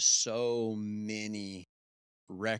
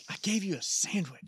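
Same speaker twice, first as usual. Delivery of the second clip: squeaky high complaint; high mock voice; 12 semitones higher, 3 dB louder than usual. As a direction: pitch way up, offended. Voicing temple feeder.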